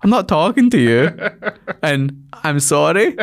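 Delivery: hurried apology, laughing through it; flustered comedian backing off. Retold or imitated. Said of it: "And he was like".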